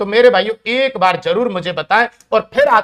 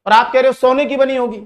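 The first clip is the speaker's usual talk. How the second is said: Salman Khan; 4 semitones higher, 3 dB louder than usual. Retold or imitated. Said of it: "कि".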